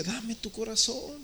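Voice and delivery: God gently asking for your heart; God pleading. Acted. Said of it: "Entonces Dios dice". (Dios suplicando con ternura, alto y lento)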